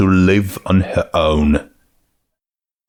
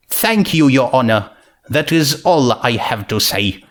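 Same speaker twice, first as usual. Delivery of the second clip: earnest princess; 3 semitones higher than usual. Acted. Twilight finishes, wiping a tear.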